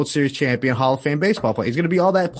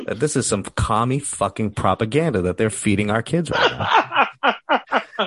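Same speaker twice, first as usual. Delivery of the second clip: laughing rant; slower than usual. Real, not acted. Half-laughing conspiracy rant.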